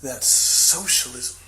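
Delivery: slow, disgusted verdict. Retold or imitated. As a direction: drop it with slow disdain. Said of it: "looks extremely disgusted".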